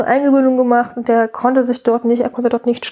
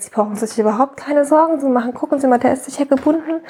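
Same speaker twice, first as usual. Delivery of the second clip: relaxed reassurance; 3 semitones higher than usual. Retold or imitated. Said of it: "die war total entspannt".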